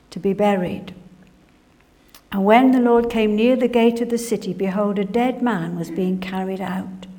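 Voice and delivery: usual speaking voice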